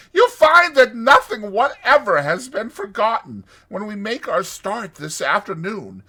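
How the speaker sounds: high, loud, confident boasting; triumphant toad. A narrator's reading. Toad showing friends round the caravan, triumphant. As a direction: announce it grandly, pitched well up. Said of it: "he continued".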